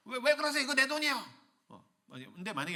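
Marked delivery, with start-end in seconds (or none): 0.1-1.2 high, loud, stammered objection; indignant protest. Acted. Worker telling God the money is theirs, alarmed. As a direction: clutch your money in mock alarm.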